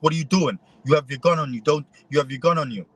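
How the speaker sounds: lightly acted angry confrontation; mock angry yell. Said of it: "starts yelling at me".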